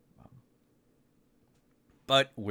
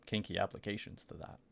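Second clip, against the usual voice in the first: discreet Aiden. Acted. Aiden's discreet offer to Atson.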